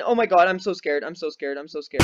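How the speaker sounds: scared. Real, not acted. Gamer bracing for the jump scare, scared. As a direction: repeat it anxiously as dread builds.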